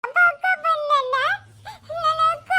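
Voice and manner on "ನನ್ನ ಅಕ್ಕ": crying. Acted. Child still crying.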